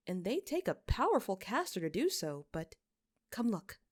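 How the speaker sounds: lightly voiced noblewoman reasoning it out; a hint of a perplexed physician; puzzled physician. Lady Carey explains the bodies.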